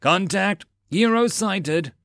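high, slow battle roar. A narrator's reading. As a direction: call it out like a soldier under fire. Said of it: "he roared again".

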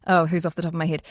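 ordinary talk

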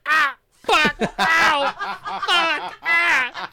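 high, loud cries and curses; pained yelps. Retold or imitated. Storyteller stopping the stream midway, pained yelps. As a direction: yelp and swear in short acted bursts.

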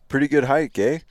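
"eh" tacked on as a question. Shown as a demonstration. Showing their own usage, "eh" as a question tag. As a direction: lift "eh" at the end like a question mark. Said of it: "like, a question mark".

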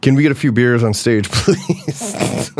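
half-laughing imitation of asking for stage beers; laughing mock request. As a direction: ask for beers sweetly, laughing through please. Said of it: "quote unquote".

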